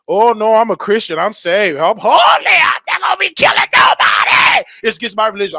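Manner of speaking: high, loud frantic refusal; panicked protest. Retold or imitated. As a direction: protest wildly that you won't kill.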